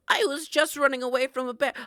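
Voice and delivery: loud, high breathless grandma; excited grandma. Pretend. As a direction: tell it like a wild escape. Playing grandma fleeing bear.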